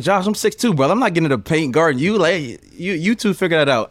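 lightly mock him back; teasing retort. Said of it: "And I'm like".

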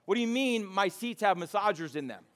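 high, baffled disbelief; mock baffled question about the car seats; incredulous friend. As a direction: ask it like you can't believe your ears. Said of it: "And he goes".

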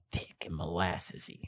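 low, hushed syrupy voice; thick and molassesy. Shown as a demonstration. Co-host describing podcasters' smooth voices, low and thick. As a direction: drop down soft and low.

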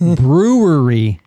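BREWERY slowly stretched as "broo-wur-ee"; slow, run-together syllables in brewery; struggling pronunciation. Shown as a demonstration. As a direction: labor through brewery slowly. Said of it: "It's so hard to say".

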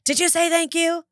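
high, prodding parent voice; prompting parent. Retold or imitated. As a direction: nudge a child about manners. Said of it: "the parent who's like".

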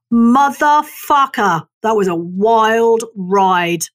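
slow, savoring exclamation; drawn-out, delighted cursing; exhilarated. Pretend. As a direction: relish the whole wild ride. Imagined joyful self on deathbed.

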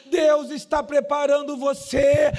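rising, fervent pulpit cadence; full-force preaching. Real, not acted. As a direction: preach it insistently, climbing with each phrase.

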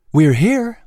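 coachman character. Acted. Clary announces arrival.

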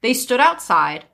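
measured fairy-tale narrator; story narration. A narrator's reading. Telling friends of a scolding mother, story narration.

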